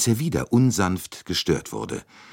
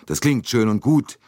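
higher and louder, restless doubt; uneasy; 7 semitones higher, 5 dB louder than usual. A narrator's reading. McQueen doubting the Swedish lady, uneasy and louder. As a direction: push back nervously. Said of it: "sagte McQueen unruhig".

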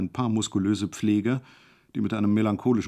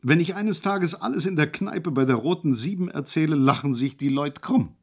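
cheerful; 5 semitones higher than usual. Acted. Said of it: "sagte er munter".

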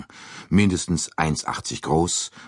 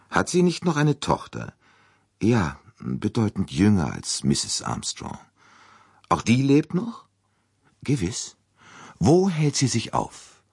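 higher, insistent questions; pressing detective; 8 semitones higher than usual. Acted. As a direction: press the old lady for answers. (drängende Fragen, höher)

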